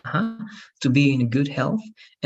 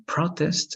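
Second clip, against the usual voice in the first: "protest" stressed on PRO, the noun; stress on first syllable; 4 semitones higher than usual. Shown as a demonstration. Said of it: "if the stress is in a different part".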